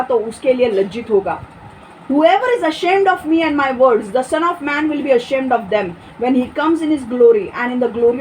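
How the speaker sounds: slow, solemn Bible reading; measured reading of holy words; scripture reading. Acted. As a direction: read each verse slowly, with weight. Reads Luke 9:26 aloud.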